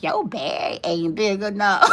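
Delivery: laughing brush-off; laughing dismissal. Retold or imitated. She brushes off the suitor, laughing. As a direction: toss it off through a laugh.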